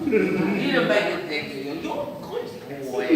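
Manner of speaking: doting mum in a put-on English accent; mum's English accent. Mother consoling her son, mock English-accented fussing. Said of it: "why she's got that English accent".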